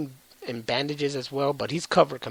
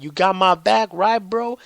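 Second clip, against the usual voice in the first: urgent plea; 6 semitones higher, 6 dB louder than usual. Retold or imitated. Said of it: "the brother's like".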